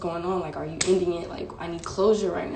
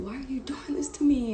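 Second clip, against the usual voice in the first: retold freak-out; 6 semitones higher than usual. Retelling her freak-out at her boyfriend, high pleading protest. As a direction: re-enact a distraught demand, held back in volume. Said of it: "went crazy".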